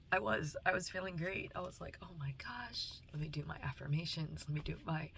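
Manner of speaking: trembling voice, close to crying; shaky voice. Real, not acted. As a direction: voice shaking with held-back tears. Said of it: "I know my voice is shaking".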